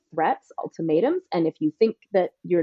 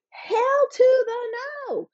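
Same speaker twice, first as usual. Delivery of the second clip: sassy refusal; much slower than usual. Real, not acted. Emphatic refusal, drawn out.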